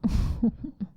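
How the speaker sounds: short breathy chuckle; light, pleased little laugh. Acted. Delighted by the love confession.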